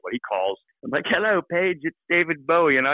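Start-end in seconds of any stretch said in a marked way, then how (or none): 1.1-2.8 higher-pitched imitation of a rock star caller. The rock star phoning the guitarist out of the blue, imitated high voice. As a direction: put on a high phone greeting. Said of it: "David Bowie's trying to call".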